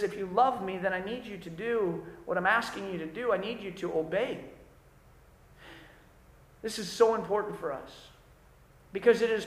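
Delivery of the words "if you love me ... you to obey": lower, softer, sincere words of Jesus; earnest quote. Retold or imitated. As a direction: quietly lay down the real demand. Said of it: "He says".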